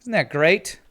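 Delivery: high and bright with delight; thrilled squeal over matching shields; excited. Real, not acted.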